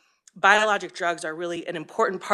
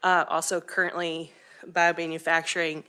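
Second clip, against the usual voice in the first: slightly out of breath. Real, not acted. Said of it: "if I sound like I'm panting".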